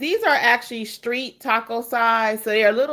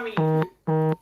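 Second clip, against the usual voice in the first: hiccups; 5 semitones lower, 3 dB louder than usual. Real, not acted. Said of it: "excuse me, I got the hiccups".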